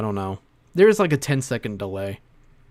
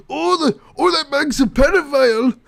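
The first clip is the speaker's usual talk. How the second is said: high hammed-up gasp, louder; mock Dean impression; 12 semitones higher, 5 dB louder than usual. Streamer mimicking Dean reacting to Bag, high mock gasp. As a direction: play Dean as a shocked goofball. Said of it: "I don't know what voice I'm going with".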